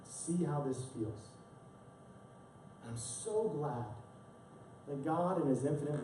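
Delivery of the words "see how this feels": softer, slow, letting it sink in; quiet voice of God. Retold or imitated. God stepping back from the proud pastor, soft and slow. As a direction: say it gently, slowly, and let it hang.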